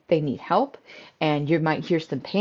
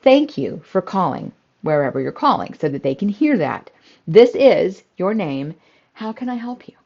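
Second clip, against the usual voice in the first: phone greeting demo. Shown as a demonstration. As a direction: answer the phone like a friendly front desk. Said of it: "that's what they need to hear".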